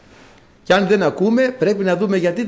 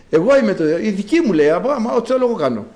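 hammed-up boastful ruler, higher and fast; mock arrogant president; 4 semitones higher, faster than usual. Preacher mocks the world's president boasting, fast and higher. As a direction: rattle off the tyrant's boast mockingly. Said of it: "Ο πρόεδρος της γης".

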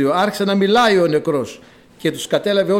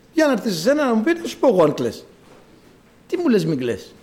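higher-pitched retort, falling away at the end; indignant retort; 4 semitones higher than usual. Acted. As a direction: throw it back as a mourner's protest. Acting an indignant bereaved person's retort. (αγανακτισμένη απάντηση)

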